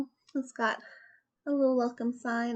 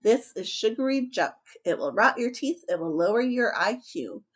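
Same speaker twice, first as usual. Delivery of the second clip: louder scolding dad; firm, louder fatherly lecture; stern father; 5 dB louder than usual. Acted.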